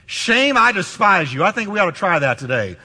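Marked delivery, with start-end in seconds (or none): 0.0-1.4 defiant. Retold or imitated. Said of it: "he said to shame".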